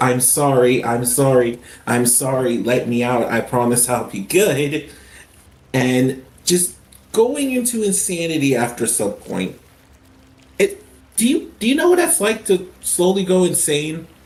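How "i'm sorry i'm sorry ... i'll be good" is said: desperate, begging, pleading voice. Retelling past words begged while trapped in the loops: imitating pleading. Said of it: "then turns into pleading of".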